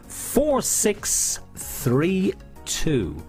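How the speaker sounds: very slow drawn-out numbers; bingo caller. Acted. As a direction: call each digit out slowly. Calling numbers slowly.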